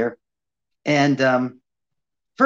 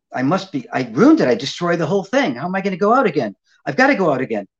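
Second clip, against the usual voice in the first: worried thought. Retold or imitated. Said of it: "And I thought".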